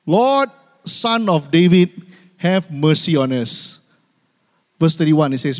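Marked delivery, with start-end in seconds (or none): 0.1-3.8 pleading cry. Retold or imitated. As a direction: cry out for mercy, dragging the words. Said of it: "they began shouting".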